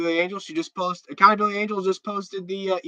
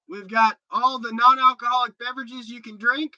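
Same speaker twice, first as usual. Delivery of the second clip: higher, louder hype-man pitch; hyped-up invite; 6 semitones higher, 4 dB louder than usual. Real, not acted. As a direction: pump the crowd up like an announcer. Hyping fans to come to jail.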